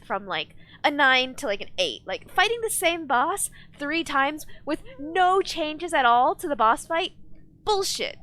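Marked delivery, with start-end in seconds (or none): 2.1-8.2 slow, higher-pitched outraged complaint; indignant rant. Real, not acted. Streamer fed up with a recycled boss, indignant rant. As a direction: spell out the grievance, indignant. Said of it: "I started to, like, rant".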